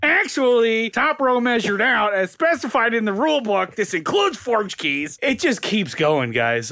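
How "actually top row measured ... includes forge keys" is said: nerd voice. Retold or imitated. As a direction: read the stats like an eager nerd. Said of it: "I'm reading this so hard in my nerd voice".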